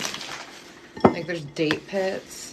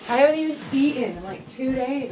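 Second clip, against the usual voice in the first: a higher, louder rant about the dishes; exasperated rant; 5 semitones higher, 4 dB louder than usual. Real, not acted. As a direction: unload the grievance. Ranting about kids' dishes.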